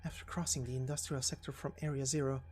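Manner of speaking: quiet, even inner monologue; fugitive thinking aloud. Acted. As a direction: think it through under your breath. Character muses alone on escape route.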